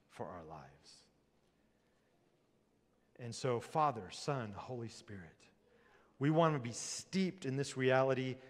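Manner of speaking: prayer. Acted. Closing prayer.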